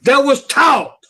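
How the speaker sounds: genuinely furious fan venting; real angry rant. Real, not acted. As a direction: let the frustration boil over. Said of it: "I'm fucking pissed off".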